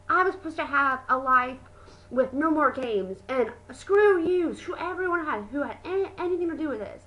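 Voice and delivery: half-voiced rant that climbs in pitch; mock ranting yell. Johanna rants about the Games, mock yell. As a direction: imitate her fed-up outburst. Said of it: "yelled in the arena".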